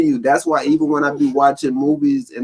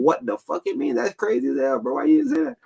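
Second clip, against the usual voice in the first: baffled high exclaim; 14 semitones higher, 4 dB quieter than usual. Retold or imitated. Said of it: "I'm like".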